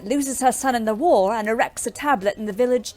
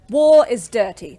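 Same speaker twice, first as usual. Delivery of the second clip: louder, hard-hit bitter words; angry outburst; 7 dB louder than usual. Acted. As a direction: throw it in her face. Bitter quarrel about the war.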